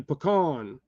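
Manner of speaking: "pecan" as puh-KAHN, spelled out first. Shown as a demonstration. Spelling out pecan for viewers, puh-KAHN. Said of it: "Like P U H C O N".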